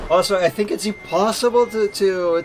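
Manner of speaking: loud, high-pitched mock Italian accent; hammed-up Italian accent with big swings in pitch; mimicked Italian accent. Streamer playfully mimicking Italian for his viewers, hammed-up Italian accent. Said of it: "to mimic Italian without making the".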